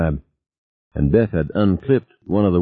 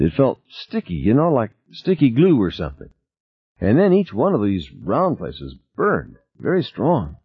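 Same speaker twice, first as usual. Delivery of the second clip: lightly voiced Tina, higher pitch; a hint of an injured crewmember, pitched up; Tina recounting her injury; 5 semitones higher than usual. Tina telling Norman how the creature felt, lightly higher voice.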